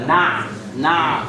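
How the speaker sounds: نع stretched slowly, ayn held. Shown as a demonstration. Teacher isolating the ayn for students. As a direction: drag out the ayn in نع. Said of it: "فيها حاجه اسمها بع".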